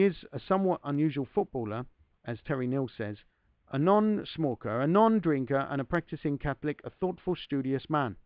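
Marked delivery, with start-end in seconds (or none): 3.7-8.2 a tentative stab at an Irish lilt; Irish accent. Retold or imitated. Reader quoting manager Terry Neill, in a mild Irish accent. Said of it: "I don't know if the accent's good".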